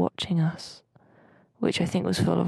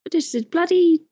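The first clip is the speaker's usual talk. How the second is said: hammed-up woe; 7 semitones higher, 5 dB louder than usual. Hammed-up lament about the pizza.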